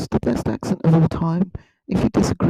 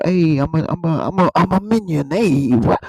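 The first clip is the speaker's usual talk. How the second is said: lightly voiced cartoon creature accent; Minion; 3 semitones higher than usual. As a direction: do a mild silly henchman voice. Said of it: "they just kinda speak".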